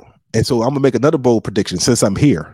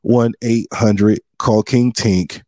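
drawn-out like a hotline commercial; slow ad voice; much slower than usual. Retold or imitated. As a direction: announce it slowly, like a TV ad. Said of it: "I'm like".

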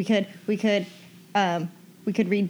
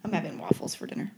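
whispering; 2 semitones lower, 5 dB quieter than usual. Real, not acted. Whispered answer about fridge.

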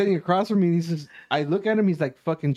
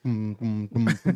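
low drum-like booms; imitated drum thumps; 6 semitones lower, slower than usual. Man showing anxiety kicking in, low imitated drum booms. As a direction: thump out pounding drums with the voice. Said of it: "the drums going and shit".

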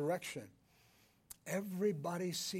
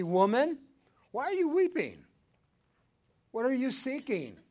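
speaking with authority; 7 semitones higher, 8 dB louder than usual. Acted. Preacher voices Jesus with authority.

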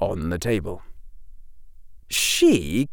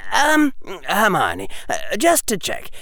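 put-on higher-pitched boy feeling his way; hesitant schoolboy; 6 semitones higher than usual. Harry checks with Hermione about signing up, hesitant. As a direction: check tentatively, with little stalls.

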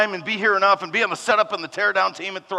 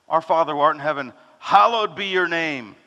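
formal prayer; 2 semitones lower than usual. Retold or imitated. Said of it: "Nobody talks like that".

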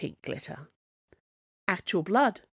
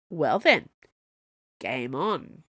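menacing taunt; 2 semitones lower than usual. Acted. Dragon taunting the heroes, menacing. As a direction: dare them to fight on.

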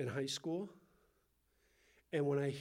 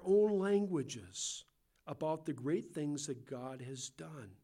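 slow, emphatic Bible reading; measured public reading with drawn-out phrases; scripture reading; slower than usual. Acted. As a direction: read it out deliberately to the congregation. Reads scripture aloud.

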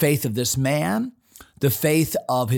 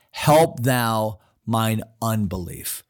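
slow plea; 3 semitones lower, slower than usual. Retold or imitated. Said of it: "watch what he goes on to say".

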